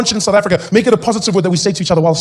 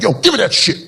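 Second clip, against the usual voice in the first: cool reclaiming voice. Retold or imitated. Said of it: "they were like".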